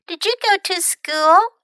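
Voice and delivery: put-on high-pitched child asking; curious little girl. Millie asks the grandfather about school, high girlish question.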